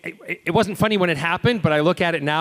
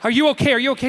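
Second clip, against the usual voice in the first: high, anxious checking; worried; 9 semitones higher, much faster than usual. Retold or imitated. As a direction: fret over a hurt friend. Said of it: "I'm like".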